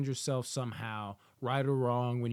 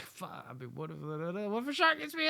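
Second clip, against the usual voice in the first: mock scared; 6 semitones higher than usual. Acting out scared swimmer alone.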